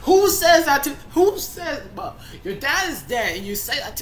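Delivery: high, loud indignant shouting; outraged yelling. Real, not acted. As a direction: yell it in disbelief. Outraged at story line.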